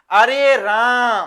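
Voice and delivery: slow, drawn-out cry to Ram; पुकार. Acted. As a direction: stretch out a mildly dismayed appeal. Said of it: "फिर भी राम को पुकार रहे हैं". (राम को खींचकर पुकारना)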